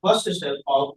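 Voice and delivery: measured, low-pitched dictation with long pauses. Shown as a demonstration. Teacher giving students a heading to write, dictating. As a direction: dictate phrase by phrase, pitched low, pausing between. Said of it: "लिखिए".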